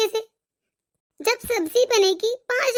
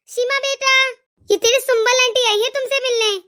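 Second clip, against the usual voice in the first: calling out; 3 semitones higher than usual. Acted. Mother calls her daughter a second time, higher call.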